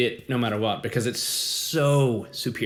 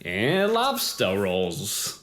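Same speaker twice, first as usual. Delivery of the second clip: put-on Mainer accent; slower than usual. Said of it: "do your best Mainer accent".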